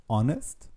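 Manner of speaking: "Honest" with the H left unsaid; teacher demo of silent h in Honest. Shown as a demonstration. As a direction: start Honest straight on the vowel. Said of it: "mais on ne le prononce pas".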